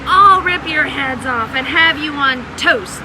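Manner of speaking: loud, gleeful monster threat; giant's threat. Acted. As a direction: growl a hungry threat at them. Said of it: "Goliath bellowed".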